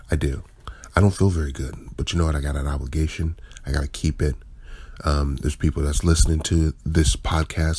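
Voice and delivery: hoarse, tired morning voice; just-woke-up groggy speaking. Real, not acted. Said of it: "I sound a little groggy today".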